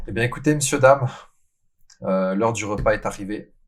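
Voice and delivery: a slight, accidental German accent; odd German accent. Real, not acted. Host announces mealtime to the audience, slightly odd German accent. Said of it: "j'ai pris un accent allemand un peu bizarre".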